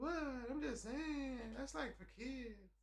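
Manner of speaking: high, slow, condescending imitation; mock dismissive woman. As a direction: brush him off as childish.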